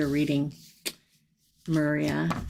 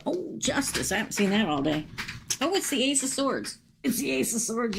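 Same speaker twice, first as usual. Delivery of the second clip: pleasantly surprised; 7 semitones higher than usual. Real, not acted. Surprising cards turn up.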